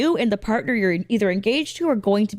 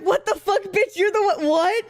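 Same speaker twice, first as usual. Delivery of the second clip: outraged onlookers; 9 semitones higher than usual. Retold or imitated. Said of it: "And everyone's like".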